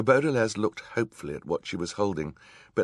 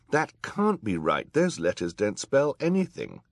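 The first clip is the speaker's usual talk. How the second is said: put-on high, raised young voice; objecting boy; 5 semitones higher, 5 dB louder than usual. A narrator's reading. Klaus correcting the villain's spelling, high earnest protest. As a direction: protest earnestly, pitch climbing.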